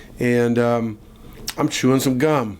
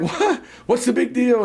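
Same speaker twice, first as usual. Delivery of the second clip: put-on kid shrugging it off; 9 semitones higher than usual. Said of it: "And I'm like".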